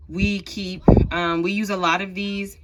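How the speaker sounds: breathless, short of air; talking while winded; out of breath. Real, not acted. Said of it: "I don't know why I'm out of breath".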